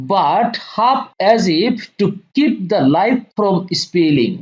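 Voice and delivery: very slow, deliberate line-by-line reading; slow poem reading. Acted. Teacher reading the poem lines to students, slow and deliberate. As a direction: read each phrase slowly so students can follow.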